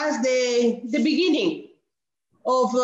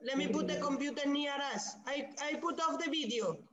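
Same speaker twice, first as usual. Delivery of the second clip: very quiet, a little fast; too soft to be heard well; barely audible; 13 dB quieter, faster than usual. Real, not acted. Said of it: "Your voice is very low".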